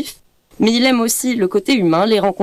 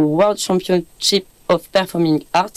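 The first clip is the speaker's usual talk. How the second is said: English name in a French accent; slower than usual. Real, not acted. Radio host introducing a singer's English title, French accent. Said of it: "excusez-moi pour mon accent".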